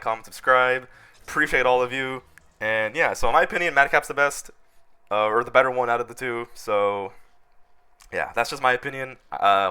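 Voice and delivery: hoarse sick voice; talking with a cold. Real, not acted. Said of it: "my, my sick voice".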